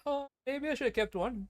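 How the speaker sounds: slow, high mock-regretful voice; mocking Nahida. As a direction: whine it like a regretful goddess. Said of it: "and now she's like".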